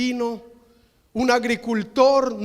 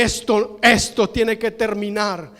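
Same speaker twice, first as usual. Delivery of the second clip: holy anger. Retold or imitated. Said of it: "tiene una reacción de ira".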